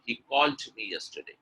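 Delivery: "called" with a released final consonant before "me"; sounded word ending. Shown as a demonstration. Teacher correcting learners' sentence, "called" with its end sound released. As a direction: put an audible "ch"-like pop ending on "called". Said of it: "That ch sound has to come".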